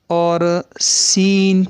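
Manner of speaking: سین drawn out slowly with a sharp, light hiss; sharp whistled seen. Shown as a demonstration. Tajweed teacher demonstrating the whistling letter, slow and sharp. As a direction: stretch سین into a thin whistling s. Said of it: "سین کو سیٹی کی تیز آواز کے ساتھ".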